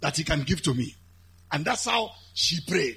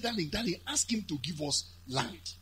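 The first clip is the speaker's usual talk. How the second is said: wifely coaxing; 8 dB quieter than usual. Acted. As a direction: sweet-talk him quietly. Wife coaxing husband, acted.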